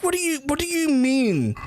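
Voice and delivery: high astonished squeal; high disbelief. Retold or imitated. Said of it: "I was like".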